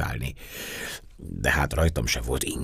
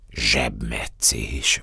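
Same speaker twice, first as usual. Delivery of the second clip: low, very slow, stunned word; dumbfounded, dragging utterance; amazed; 4 semitones lower, much slower than usual. Acted. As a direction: say it in drawn-out astonishment. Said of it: "mondottam elámulva".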